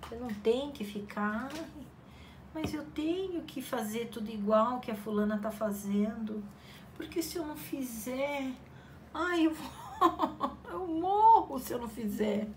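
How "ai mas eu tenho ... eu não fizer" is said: higher, laughing mock despair; hammed-up anxious whine; mock panicking crafter. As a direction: overdramatize the fear of falling behind. Mocking anxious comparison.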